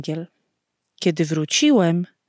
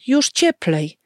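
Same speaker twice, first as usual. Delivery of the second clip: higher, lightly acted call; cheerful call; 4 semitones higher than usual. A narrator's reading. Father reassures his wife about the cold, calling out cheerfully. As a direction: call it out brightly, no shout. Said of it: "zawołał".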